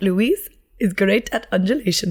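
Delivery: bad, clumsy, put-on German accent. Retelling what a german teaching lecturer said about you, in a terrible german accent. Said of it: "That sounded like I was doing a terrible other accent".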